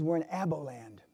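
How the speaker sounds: guide's reply in a hushed whisper; voiceless, secretive hush. Retold or imitated. Guide whispering back to the hunter in the bush. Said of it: "he's whispering".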